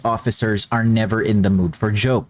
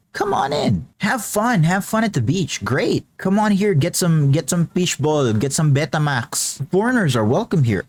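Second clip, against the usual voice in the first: cheery welcome; 5 semitones higher than usual. Acted. Exaggerated Filipino welcome to foreigners.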